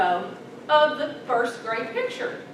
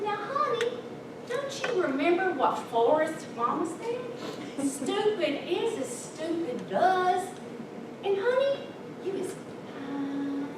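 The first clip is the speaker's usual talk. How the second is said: sweet grandma; 2 semitones higher, 5 dB quieter than usual. Retold or imitated. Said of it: "she's so sweet".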